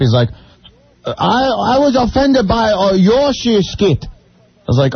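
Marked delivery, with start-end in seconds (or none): 1.1-4.0 imitated Asian accent. Host retells an angry caller's complaint, imitated Asian accent. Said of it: "Because of my voice?".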